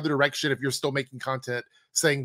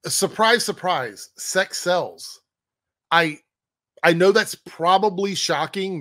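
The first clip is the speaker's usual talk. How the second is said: first word pitched up, then dropping back; sarcastic mock surprise; 3 semitones higher, slower than usual. Real, not acted. Reactor mocking the video's host for stating the obvious, sarcastic. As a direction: feign amazement at the obvious. Sarcastic retort to the played clip.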